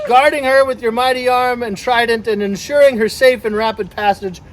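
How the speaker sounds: formal blessing read out to a gathering; ceremonial reading. Pretend. Boat owner asking protection for the vessel, ceremonial reading. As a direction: recite it as a mock-solemn rite.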